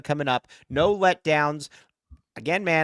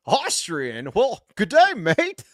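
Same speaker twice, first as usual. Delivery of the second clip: goofy Australian movie quote, rising higher at the end; mock Australian accent; 5 semitones higher, much slower than usual. Host acting out a comedy film line, mock Australian. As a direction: lift the greeting into a daft Aussie accent. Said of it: "another Dumb and Dumber one when he goes".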